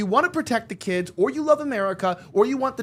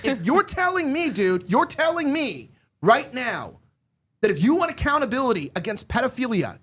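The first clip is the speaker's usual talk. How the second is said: fed-up anger at Avi's argument; angry; 3 semitones higher than usual. Real, not acted. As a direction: stretch the words out in real frustration. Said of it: "hear the anger in my voice".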